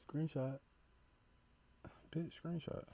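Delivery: whispered to himself. Real, not acted. Trying to take a screenshot, he whispers to himself. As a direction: hiss it under the breath.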